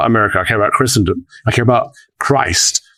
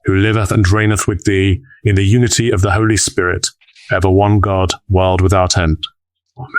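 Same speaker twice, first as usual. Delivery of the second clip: prayer; 4 semitones lower than usual. Acted. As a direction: pray it reverently, slightly low. Leads a prayer.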